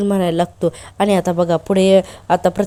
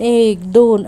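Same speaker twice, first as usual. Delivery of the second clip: mock loud counting; 2 semitones higher, 5 dB louder, much slower than usual. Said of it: "असं म्हणत".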